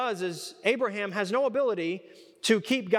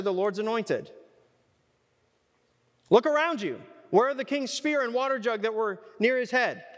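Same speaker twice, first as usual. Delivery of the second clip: mocking trash talk; 4 semitones higher than usual. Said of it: "There is trash talk in the Bible".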